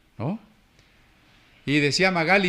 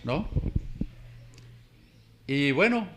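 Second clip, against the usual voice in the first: ordinary delivery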